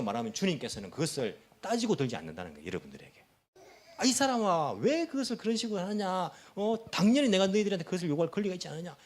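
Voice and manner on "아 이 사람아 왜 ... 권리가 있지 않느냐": mock remonstrance, starting higher; lightly acted scolding, hurrying toward the end; demanding rebuke. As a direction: challenge them as if claiming your right. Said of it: "그렇게 따지지 않는다".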